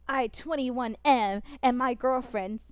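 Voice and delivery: lightly imitated AI reading a Reddit post; a hint of slow text-to-speech narration; AI narrator voice. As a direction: read it slowly, a little like an AI voice. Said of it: "you do the A I voice when they're like".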